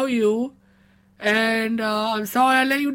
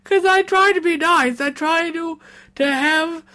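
emotional; 4 semitones higher than usual. Acted. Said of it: "in this state".

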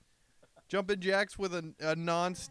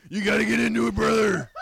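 hype shout; 4 semitones higher, 10 dB louder than usual. Acted. Echoing a hype line loudly.

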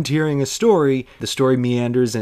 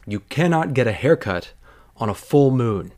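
mild mock certainty, cannot leaned on; with authority. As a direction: lay down the rule like an expert. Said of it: "she says with authority and experience".

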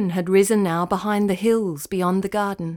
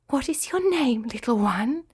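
kindly spider; 4 semitones higher than usual. Acted. Spider gently asks the little cricket.

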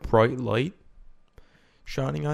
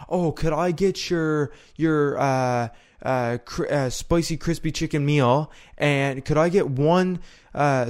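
long slow order; 3 semitones higher, slower than usual. Retold or imitated. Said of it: "I just don't like saying".

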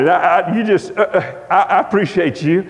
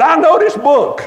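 raised-pitch preacher's declaration; E V Hill; 4 semitones higher than usual. Retold or imitated. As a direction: declare it like a big-time preacher. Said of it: "He was preaching in a big-time way".

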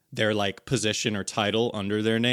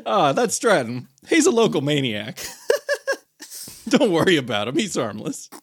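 mock NPC intro; 2 semitones higher, 4 dB louder than usual.

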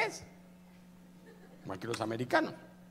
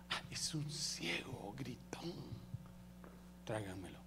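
hushed reply; 5 semitones lower, 16 dB quieter than usual. Acted. Jesus hears a blind man shouting, hushed.

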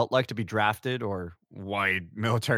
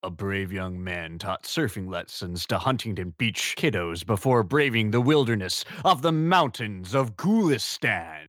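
movie trailer voice; 3 semitones lower than usual. Pretend. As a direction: announce it like a blockbuster trailer. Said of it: "I've just always wanted to do the trailer voice".

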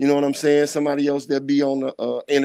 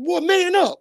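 mock girlfriend, pitched way up, telling him off; squeaky scolding girlfriend; imitating his girl. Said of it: "She said".

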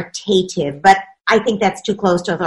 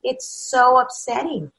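soothing parent; 2 semitones higher, 6 dB quieter than usual. Acted. Parent gently soothing a sobbing child. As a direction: hush a crying child gently. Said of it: "That parent says".

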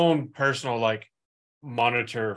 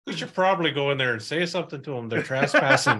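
mock Canadian accent; 3 semitones higher, faster than usual. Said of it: "instead of having Texas accents, they have Canadian".

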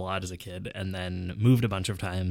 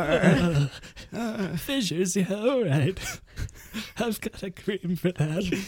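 small-town pharmacist; 9 semitones higher, slower than usual. Pretend. Pharmacist role.

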